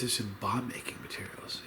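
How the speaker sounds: hushed, low quoted aside. Retold or imitated. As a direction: imitate someone keeping it discreet. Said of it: "he says, with his lowered voice".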